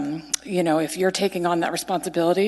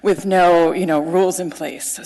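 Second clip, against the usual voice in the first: laughing off the nerves; nervous rambling. Real, not acted. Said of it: "sorry, I'm nervous".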